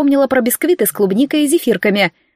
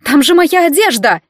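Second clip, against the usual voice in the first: dismayed wail; 5 semitones higher, 4 dB louder than usual. Acted. Нейт в ужасе за одежду.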